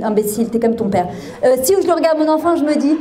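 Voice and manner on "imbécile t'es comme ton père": lower, dismissive aside; retold private grumble, dropped in pitch; muttered inner thought. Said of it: "et dans ma tête, je me dis".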